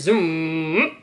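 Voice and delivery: drawn-out, rising zoom; loud imitated zoom; zooming sound. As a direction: stretch it into a swoop.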